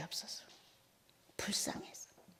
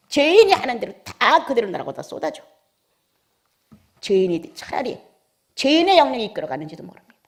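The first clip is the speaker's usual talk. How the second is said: loud, high surges of exhortation; impassioned preaching; 6 semitones higher, 8 dB louder than usual. Real, not acted. Preacher urging believers to evangelise their own families, impassioned full-force preaching. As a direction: challenge the congregation with forceful rhetorical questions.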